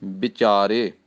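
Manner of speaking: ਵਿਚਾਰੇ said bichare, with b and short i. Shown as a demonstration. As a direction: start ਵਿਚਾਰੇ with a b. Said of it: "ਵਿਚਾਰੇ ਬੱਬੇ ਨੂੰ ਸਿਹਾਰੀ ਨਾਲ".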